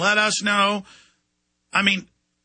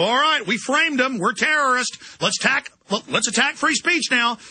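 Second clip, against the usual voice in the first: raised-pitch voice of plotting police; mock scheming cops; 6 semitones higher than usual. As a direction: mimic cops eagerly planning an attack.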